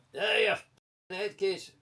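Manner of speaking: imitating a passer-by's insult. A passer-by jeering at J D outside his house, mock slow yell. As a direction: drag out the insult like a rough stranger in the street. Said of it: "He sounded to me like a gypsy".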